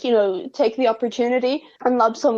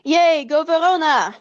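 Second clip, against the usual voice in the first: higher-pitched playful cheer; cheering a friend on; 4 semitones higher than usual. Acted. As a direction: cheer like you're jumping up and down. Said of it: "I'm, like, jumping up and down".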